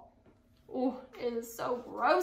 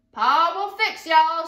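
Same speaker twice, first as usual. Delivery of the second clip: determined; 6 semitones higher, 10 dB louder, slower than usual. A narrator's reading. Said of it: "she said to herself".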